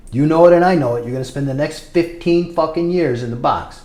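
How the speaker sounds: re-enacted tough talk, starting loud then easing slightly; retold stern warning. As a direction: drive the warning home forcefully. Retold heated warning to Sully.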